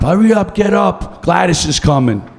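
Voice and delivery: nagging wife. Retold or imitated. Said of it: "my wife wakes me up".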